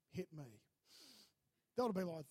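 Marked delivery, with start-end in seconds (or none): 0.1-0.6 soft hit me. Retold or imitated. Dad offers to take punishment.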